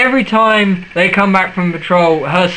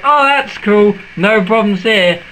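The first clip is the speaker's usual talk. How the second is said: higher-pitched, easygoing acceptance; mock relief; 3 semitones higher than usual. Jacob learning she's only pregnant, mock relieved. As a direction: play it breezily unbothered.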